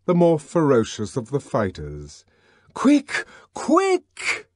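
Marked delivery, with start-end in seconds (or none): 2.7-4.5 yelling. A narrator's reading. Bernard yelling at the police to hurry. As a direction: urge them on with a yell. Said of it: "yelled Bernard".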